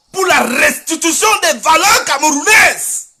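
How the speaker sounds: rallying shout. Real, not acted. Activist urging Cameroonians to back the deputy's fight, shouting. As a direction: proclaim it forcefully, hammering the repeat.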